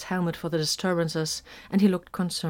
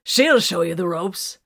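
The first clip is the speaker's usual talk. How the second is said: sly innuendo; 6 dB louder than usual. A narrator's reading. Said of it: "he advised".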